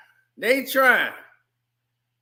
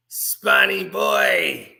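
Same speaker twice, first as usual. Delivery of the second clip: slow, stretched taunt with a laugh; laughing mock Violator taunt; 4 dB louder, much slower than usual. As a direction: drawl it like a cackling demon clown. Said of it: "in that accent of Violator".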